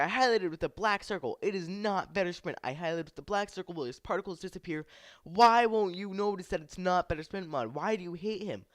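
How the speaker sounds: high, loud frustrated yell; retold yelling. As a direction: keep shouting your case at them. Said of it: "I started yelling at them".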